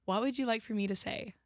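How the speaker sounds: British speaker putting on an American accent. Shown as a demonstration. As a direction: imitate the host's American accent, softly. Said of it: "And your accent?".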